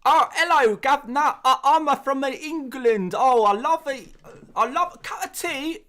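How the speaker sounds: very high, loud, hammed-up bad British accent; American's fake British accent. Shown as a demonstration. Streamer mocking Americans who imitate the English, absurd high-pitched British accent. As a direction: squeal out an American's parody of English speech. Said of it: "an impression of an American person doing an impression of an English".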